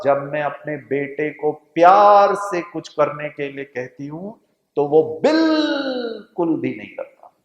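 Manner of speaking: exasperated mother. Retold or imitated. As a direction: pour out a mother's frustration over her son. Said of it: "माता का पूरा दर्द समाया हुआ था".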